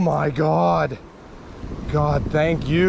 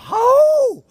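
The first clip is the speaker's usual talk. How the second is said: sudden high, louder yelp of surprise; startled cry; 6 dB louder than usual. Real, not acted. Angler startled as the catfish gulps, loud high yelp. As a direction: jump at the fish's gulp.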